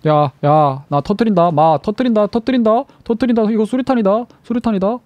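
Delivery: high, rising playful threat yells; grenade warning yell. Pretend. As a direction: yell it like you're about to blow. Streamer threatens to pull grenade.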